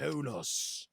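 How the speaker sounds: HONUS as "HO-noss", drawn out; careful pronunciation. Shown as a demonstration. Confirming the name, HONUS said with relish. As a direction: stretch HONUS with a long final s. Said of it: "You're correct".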